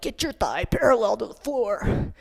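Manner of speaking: mock-strict yoga instructor, voice put on; old-school yoga teacher. Old-school yoga teacher ordering students into the pose, mock-strict. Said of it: "old school yoga was like".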